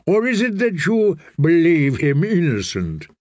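a pampered eunuch pleading for gentleness; fussy eunuch. Acted. Narrator voices Varys.

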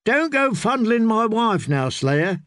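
high, lightly amused tease; mildly tipsy mock warning; laughing drunk singer. A narrator's reading. Singer teases friend about his wife, lightly amused.

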